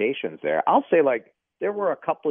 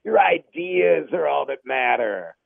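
lightly drawled stoner dude; a hint of a laid-back stoner; 3 semitones higher than usual. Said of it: "you kinda went to the stoner voice there".

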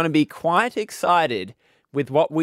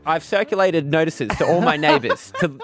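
mock formal letter to council; 2 semitones higher than usual. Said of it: "You write to the council and you say".

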